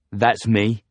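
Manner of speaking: tough "That's me" to the cabbie; a bit thuggishly. Acted. Simon repeats himself to the doubtful driver, a bit thuggish. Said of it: "a bit thuggishly".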